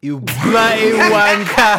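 slow, loud mock British insult; mock British accent. Insulting friends for laughs, loud mock British accent. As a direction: draw it out loudly in put-on British.

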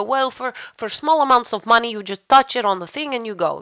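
lightly imitated Dutch accent; casual Dutch-accented quote. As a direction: explain it helpfully in a Dutch accent. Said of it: "why my Dutch went Russian".

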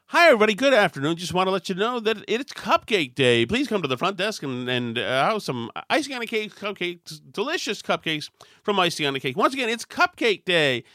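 upbeat intercom announcement voice. Retold or imitated. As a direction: read it like a PA page. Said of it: "announce it as cupcake day".

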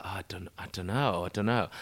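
whispered, flustered dithering; unsure whisper. Retold or imitated. Diner unsure of the wine list, whispering. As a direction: hush it out like you have no clue about wine.

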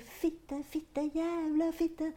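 high, slow drawn-out mock scream of swearing; retold screaming. Teen boy on scooter swearing at it, imitated scream. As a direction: belt the curses out like a furious teenage boy. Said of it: "hører jeg at han skriker".

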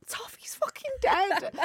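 hushed urgent whisper. Retold or imitated. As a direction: whisper the bad news to mum. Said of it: "I'm like".

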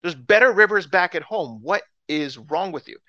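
acted indignant complaint; exasperated mock tirade; insulted Naaman. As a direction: argue back, affronted and incredulous. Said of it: "he's so insulted".

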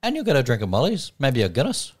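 light stage Irish pub plug; mock Irish. Cohost joining the Irish ad read. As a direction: offer a pint Irish style. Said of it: "you got me doing it now".

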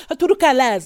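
put-on failed Scottish accent drifting towards Welsh; botched Scottish accent. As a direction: attempt Scottish, land somewhere near Welsh. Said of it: "What's that accent?".

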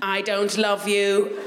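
put-on slow robot voice of a toddler; flat slow robotic toddler demand. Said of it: "in a robot voice".

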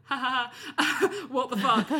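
slow disbelieving laugh into the swear; giggly what the fuck. Retold or imitated. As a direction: laugh off the nerves in shock. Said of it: "and I was like".

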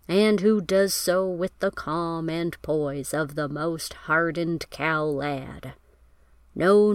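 a hint of an old western cowboy, unhurried in places; mild cowboy voice. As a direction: lightly play a cowboy star tipping his hat. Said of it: "which I will now read in my best cowboy voice".

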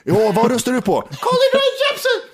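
caller shrieks very high and laughing; a giggly caller yelling her vote; mock caller and DJ. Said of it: "tänk att det låter".

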